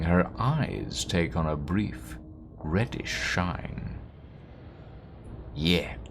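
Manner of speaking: hushed, deliberate telling of a tale; story narration. Acted. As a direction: let the suspense hang between phrases. Reads game narration.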